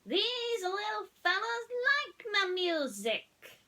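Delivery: high, slow, loud country drawl; Mater shouting. A narrator's reading. Tow truck delighted at the tractors, loud slow drawl. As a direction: stretch it out in delight.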